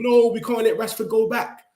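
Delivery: high-pitched imitation of whining fans; mock crying. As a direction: wail it like a mock-upset supporter. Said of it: "crying and saying".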